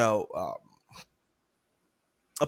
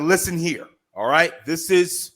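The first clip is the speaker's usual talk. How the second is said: firm tone; 4 dB louder, slower than usual. Retold or imitated. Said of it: "it was this tone. Imagine this tone just up one".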